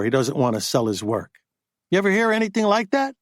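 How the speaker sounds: a hint of a pushy agent griping; agent Buddy, indignant. Buddy retelling agent standoff.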